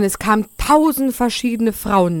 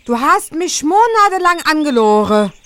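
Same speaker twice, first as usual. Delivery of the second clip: put-on girl shouting down from the window, building to loud and higher at the end; scolding a lying suitor from the tower, getting louder; 4 semitones higher, 3 dB louder than usual. Angry girl at the window yelling down at the prince. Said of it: "brüllte hinunter".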